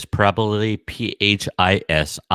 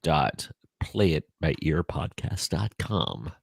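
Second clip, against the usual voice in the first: game show host; 4 semitones lower, 7 dB quieter than usual. Acted. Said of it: "Just trying to use my best game show voice".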